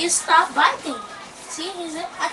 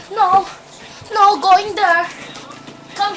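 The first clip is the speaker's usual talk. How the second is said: loud scolding; 5 semitones higher, 8 dB louder than usual. Real, not acted. Scolding the dog loudly.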